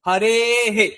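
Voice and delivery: হরে হে, the বিসর্গ sounded as an echoing হে; visarga said as he. Shown as a demonstration. Teacher repeating the right sound for students, হরে হে. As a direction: finish হরে with a light হে. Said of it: "কিন্তু উচ্চারণটা হে এরকম হবে".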